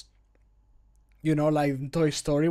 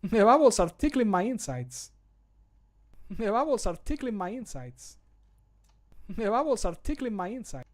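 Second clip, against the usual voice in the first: character voice line; 5 semitones higher than usual. Acted. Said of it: "when he's drinking the ale".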